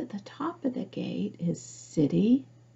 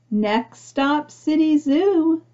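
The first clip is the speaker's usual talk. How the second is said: louder, higher driver calling out the stop; bus driver calling; 7 semitones higher, 6 dB louder, slower than usual. Acted. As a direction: call the stop to the passengers. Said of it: "the bus driver would call".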